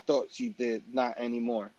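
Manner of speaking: low, soft, dejected; he answers the girl, quietly sad; sad quiet reply. Retold or imitated. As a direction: let it fall away in resignation. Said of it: "he goes".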